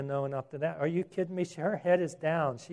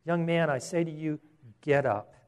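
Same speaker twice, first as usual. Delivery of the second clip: authoritative. Acted. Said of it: "You kind of wonder how authoritatively he said it".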